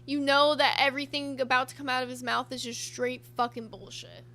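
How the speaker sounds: ordinary talk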